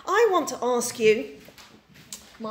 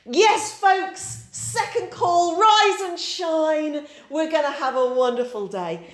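louder, higher booming wake-up call, very slow on rise and shine; booming army voice; 5 semitones higher, 5 dB louder, slower than usual. Retold or imitated. Dad waking the kids in the barn, booming army call. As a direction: bellow it like a cheerful army dad rousing the troops. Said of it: "in his big booming army voice".

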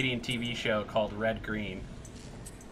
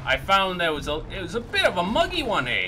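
higher, louder, broad Canadian "eh, bud" voice; over-the-top Canadian, louder and higher; hammed-up Canadian accent; 4 semitones higher, 4 dB louder than usual. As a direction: lay the Canadian accent on thick, like a hoser. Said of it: "what tipped you off, eh?".

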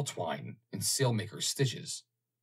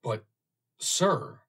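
much higher and louder; eager; 5 semitones higher, 5 dB louder than usual. A narrator's reading. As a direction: burst in eagerly. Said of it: "asked Roland eagerly".

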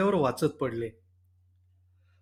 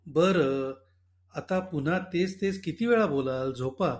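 calmly. Acted. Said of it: "मी शक्य तेवढ्या शांतपणे सांगितलं".

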